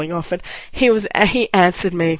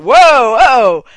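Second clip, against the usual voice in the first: louder, higher mock whoa; retold startled protest; 6 semitones higher, 11 dB louder than usual. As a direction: act out being stopped short. Card slammed shut on him.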